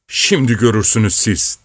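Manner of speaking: ordinary delivery, nothing marked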